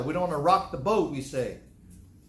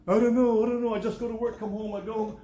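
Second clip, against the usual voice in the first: indifferent churchgoer; 6 semitones higher, 4 dB louder than usual. Retold or imitated. Mock reply of an indifferent churchgoer.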